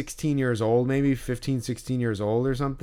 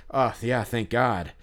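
sarcastic mocking; slower than usual. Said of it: "I did mock that kid".

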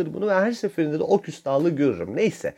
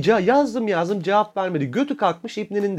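mock gossip; 6 semitones higher than usual. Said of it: "Desin ki".

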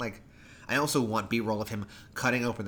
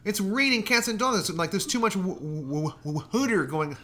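high, loud hammed-up Baltimore cabbie; Baltimore accent; 9 semitones higher, 4 dB louder than usual. Imitating a Baltimore cab driver for laughs, Baltimore accent. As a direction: ham up a Baltimore cab driver demanding pay. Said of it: "like, a good, like, Baltimore accent".

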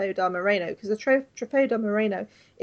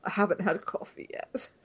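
groggy morning voice; 6 semitones lower than usual. Retold or imitated. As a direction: imitate someone who hasn't had coffee. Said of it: "the return of Dan's morning voice".

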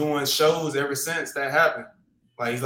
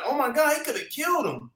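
mock horrified onlooker; 10 semitones higher than usual. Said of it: "I seen somebody say".

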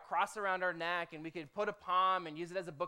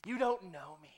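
soft, drawn-out mock insistence; a hammed-up plea, slowing on believe; mock protest to God, softly drawn out; mock pleading protest; 6 dB quieter, slower than usual. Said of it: "the dumbest thing ... is be like".

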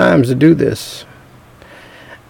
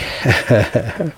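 quiet chuckle after a big line; short chuckle; 2 semitones lower, 8 dB quieter than usual. Real, not acted. Preacher amused that the world thinks Christians crazy, quiet chuckle.

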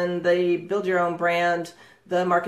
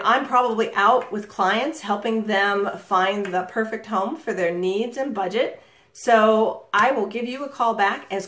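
engaging greeting. Shown as a demonstration. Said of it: "so you see the difference?".

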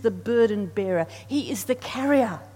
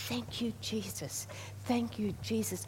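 quiet prayer; 7 dB quieter than usual. Retold or imitated. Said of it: "And I go".

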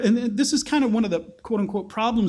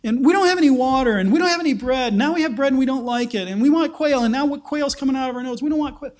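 high, mock-whiny complaining voice; whining; 4 semitones higher than usual. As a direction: whine it like a spoiled crowd, pitched up. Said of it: "They start whining".

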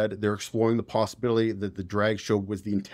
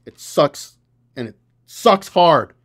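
building to an angry shout, higher and louder, slowing on the last words; exasperated yell that climbs to a slow, hard finish; fired up rant; 6 semitones higher, 11 dB louder, slower than usual. Real, not acted. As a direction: vent at the video player, getting louder. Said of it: "I'm fired up today".

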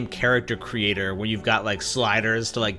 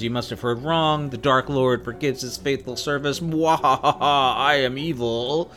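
mad scientist; 2 semitones higher than usual. Retold or imitated. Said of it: "She says".

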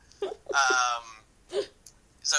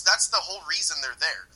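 ordinary talk

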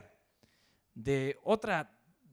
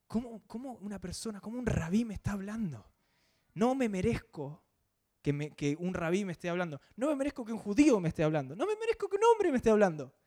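higher, rising disbelief that builds; woman's inner doubt; 5 semitones higher than usual. Retold or imitated. Samaritan woman questions herself, feeling unworthy, in higher pleading disbelief. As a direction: ask yourself how this could happen to you. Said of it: "por dentro se debe estar cuestionando".

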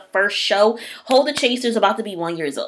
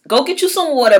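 louder and higher, urging everyone; 8 semitones higher, 8 dB louder, faster than usual. Real, not acted. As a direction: call out to listeners, higher and louder. Urging listeners to drink water.

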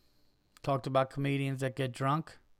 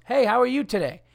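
high, lilting mock-friendly hello; imitated nice lady's hello; friendly greeting; 10 semitones higher, 5 dB louder than usual. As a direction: greet a customer nicely, pitched well up. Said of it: "Lady starts out nice with me".

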